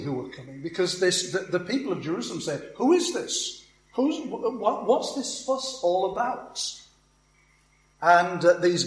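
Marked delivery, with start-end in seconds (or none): 2.8-6.6 high, bewildered voice of the crowd; puzzled crowd. Acted. Jerusalem crowd asking the Galileans, high and bewildered. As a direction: ask it like a baffled bystander.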